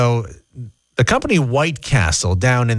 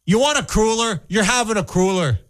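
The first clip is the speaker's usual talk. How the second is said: much higher, hammed-up Canadian drive-through worker; pushy attendant; 8 semitones higher than usual. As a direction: push the cruller on them, mock bossy. Bossy Canadian attendant bit.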